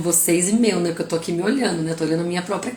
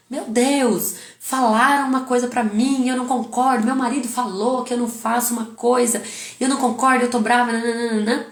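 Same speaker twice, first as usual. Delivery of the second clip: higher-pitched, hammed-up complaining rant; mock ranting; 4 semitones higher than usual. Wife venting about her husband's remarks, mock ranting. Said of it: "olha a diferença de eu esbravejar".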